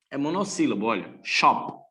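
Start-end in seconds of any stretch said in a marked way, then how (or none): 1.2-1.8 "Shop" as one short, unbroken syllable; all in one go. Shown as a demonstration. Teacher showing it is monosyllabic, "Shop" said at once. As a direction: say "Shop" in a single beat. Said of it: "Eu falo ele de uma vez só".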